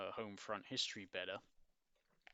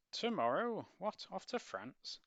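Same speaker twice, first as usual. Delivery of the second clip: alarmed sister; 11 semitones higher, 7 dB louder, slower than usual. Acted. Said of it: "sorry, Doris".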